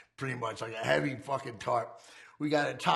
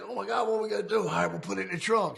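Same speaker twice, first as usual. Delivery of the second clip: higher and fast, flustered; retold panic; 7 semitones higher, faster than usual. Safe won't fit the car, retelling the flustered panic. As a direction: rush it out like a mock panic.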